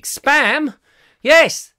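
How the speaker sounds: high, loud incredulous Spam; surprised. Real, not acted. Host startled by a listener's Spam question, incredulous.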